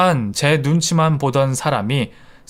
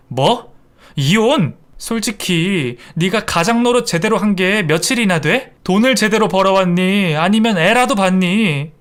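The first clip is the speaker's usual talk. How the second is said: angry retort; 5 semitones higher than usual. Acted. Wife fights back in quarrel.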